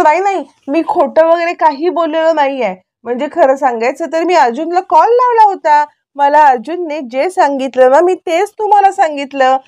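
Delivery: a touch of panic, protesting his innocence; flustered denial. Acted. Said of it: "आता चैतन्य गडबड".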